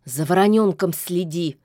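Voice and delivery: commanding. Acted. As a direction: bark a brisk order. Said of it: "приказала ведьма".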